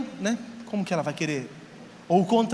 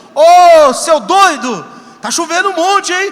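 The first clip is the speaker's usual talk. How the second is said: very loud, shrill, jeering mocking shout; 6 semitones higher, 14 dB louder than usual. Retelling people outside jeering at someone inside the ark: imitating people shouting mockingly. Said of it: "E o pessoal na rua gritando".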